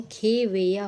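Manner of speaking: खेवैया said with a long "khe" opening; correct pronunciation demo. Shown as a demonstration. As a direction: open खेवैया on a clear "khe", not "khi". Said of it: "खी नहीं होता है".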